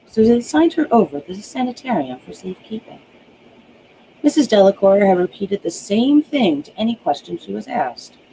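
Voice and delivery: measured storytelling read; story narration. A narrator's reading. Author reads her novel to viewers, steady storytelling. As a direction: draw the listener into the tale.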